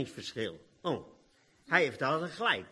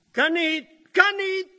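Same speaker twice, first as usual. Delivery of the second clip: high, loud "can't, can't"; high, loud alarmed refusal; alarmed protest; 12 semitones higher, 7 dB louder than usual. Acted. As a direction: Martha panicking at the idea. Martha protesting the stone.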